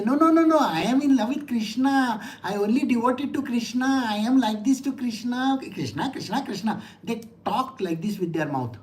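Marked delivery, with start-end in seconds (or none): 0.0-6.8 mock devotee. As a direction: parody a showy devotee. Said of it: "there are people who say".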